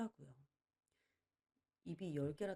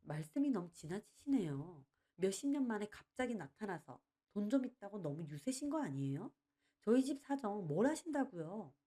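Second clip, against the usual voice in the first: fuming protest; 3 semitones higher than usual. Acted. Daughter-in-law fuming at the uncle, rising to a mild outburst. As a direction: get more heated line by line. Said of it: "며느리는 그 말에 씩씩거리더군요".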